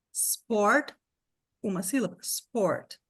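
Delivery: sport said as one syllable, no vowel before the s; English pronunciation. Shown as a demonstration. Teacher modelling sport for the class.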